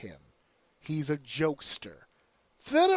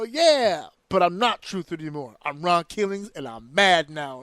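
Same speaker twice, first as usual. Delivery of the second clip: louder, stern wrestler turning serious; mock menacing wrestler; 5 dB louder than usual. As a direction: play the returning star who's done joking. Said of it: "And they go".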